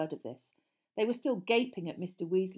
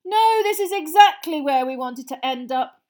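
very sarcastic; 8 semitones higher, 14 dB louder than usual. Acted. Fred to Ron in cramped fireplace, very sarcastic. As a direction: lay the sarcasm on thick. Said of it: "came Fred's voice very sarcastically".

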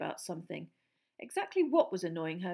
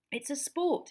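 curt; 6 semitones higher than usual. A narrator's reading. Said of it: "he said shortly".

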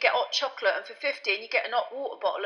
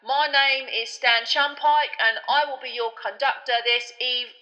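loud announcement; 4 semitones higher, 8 dB louder than usual. Acted. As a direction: announce it loudly to the whole night street. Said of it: "began to speak loudly to the night".

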